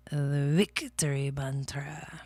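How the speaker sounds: slow, breathy whispered chant; whispering. Real, not acted. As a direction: whisper it like a secret mantra. Chanting a mantra quietly.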